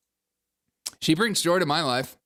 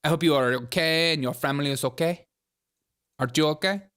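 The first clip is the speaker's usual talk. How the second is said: imitating Kamala Harris. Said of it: "waiting to hear her Scandinavian accent".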